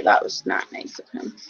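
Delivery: soft unvoiced whisper. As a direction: say it as a secret whisper.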